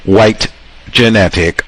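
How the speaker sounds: ordinary talk, nothing marked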